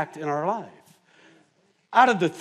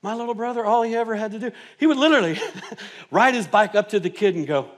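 usual speaking voice

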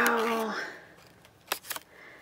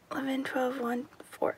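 hushed, unvoiced counting of hours; soft whisper to herself; 10 dB quieter, faster than usual. Real, not acted. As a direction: count it off under your breath.

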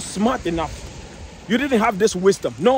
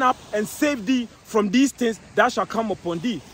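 1 slow scripture reading; 2 semitones higher, slower than usual. Acted.

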